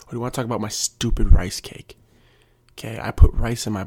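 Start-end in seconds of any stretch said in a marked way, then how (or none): 0.1-2.0 louder, mock-indignant comeback; hammed-up irritation, building louder; exasperated retort. Defending his snack to nosy coworkers, exasperated.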